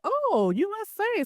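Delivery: high-pitched mock "oh!" of interest; lifted, intrigued quote; imitating impressed reaction. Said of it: "their whole demeanor be like".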